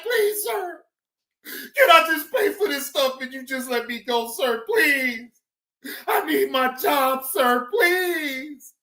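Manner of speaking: lightly whiny imitation of begging; mock pleading. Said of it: "She's like".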